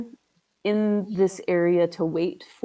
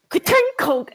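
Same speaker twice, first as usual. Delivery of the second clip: metallic ka-tink; 5 dB louder than usual. Acted. GM imitates axe on marble.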